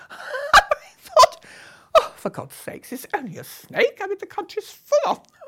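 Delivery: can barely get it out for laughing. Real, not acted. Recalling her own calm about the snake, laughing through it.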